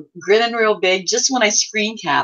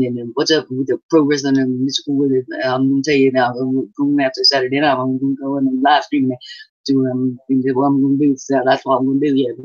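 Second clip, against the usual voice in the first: mumbling character; 3 semitones lower, faster than usual. Retold or imitated. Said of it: "all he does is mumble".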